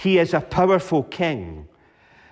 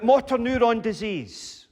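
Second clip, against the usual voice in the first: mock shout from congregation; 8 semitones higher than usual. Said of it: "People might shout out".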